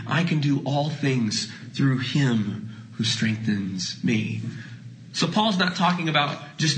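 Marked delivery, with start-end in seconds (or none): 0.1-4.4 slow and lower, falling. Acted. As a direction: let the verse settle. Quoting Paul slowly.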